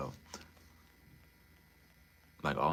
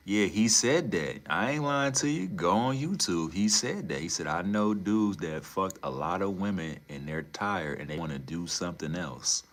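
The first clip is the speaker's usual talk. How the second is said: higher, louder, worked-up insistence; insistent; 3 semitones higher, 5 dB louder than usual. Real, not acted. Insisting to Molly it's on YouTube, higher and louder. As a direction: swear it's true, all fired up.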